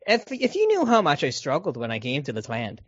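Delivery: imitating the grandpa in an Irish accent. Co-host acting out the grandpa's plea about struggling, in an Irish accent. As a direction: put on a light Irish lilt. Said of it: "I don't know why I did the Irish accent".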